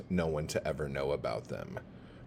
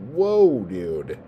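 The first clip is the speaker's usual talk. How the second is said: voicing the creaky chair; 6 semitones higher, 7 dB louder, slower than usual. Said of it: "it's like".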